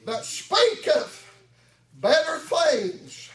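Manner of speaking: chanted whooping sermon, a sharp huh after each line; preaching at full force. Acted. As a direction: drive each phrase up and bark a huh at the end. Sermon builds back to whooping.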